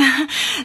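weak, forced little laugh; a nervous half-hearted titter; half-hearted giggle. Acted. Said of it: "Lennart kichert halbherzig". (halbherziges Kichern)

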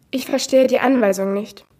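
lightly voiced AI woman with stilted stress; a hint of a computer lady, odd emphasis; mild synthetic female assistant voice; unnatural woman's voice. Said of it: "Die Stimme einer Frau. Ihre Betonung ist genauso unnatürlich".

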